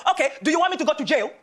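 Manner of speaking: lightly voiced Nigerian auntie warning; Nigerian mother. Nigerian mother warning her daughter on the bus, imitated accent. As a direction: imitate a Nigerian mum's threat. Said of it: "so this is what she said".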